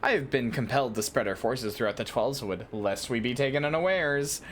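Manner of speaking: lightly voiced leader briefing a recruit; formal commander. Lewin asking an adventurer to handle cultists, lightly acted formal briefing. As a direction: read it as a measured, slightly theatrical officer. Reads game character Lewin's dialogue.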